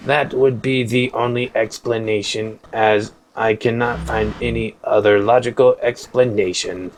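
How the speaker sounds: level, lightly robotic delivery; horrible robot voice. Acted. Robot overseer reasons about the drone, horrible robot voice. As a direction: recite it like a stiff machine. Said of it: "That's a very horrible robot voice".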